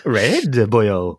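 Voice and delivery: hammed-up Welsh lilt; mock Welsh accent. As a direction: ham it up as a stock Welshman. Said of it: "in a Welsh accent".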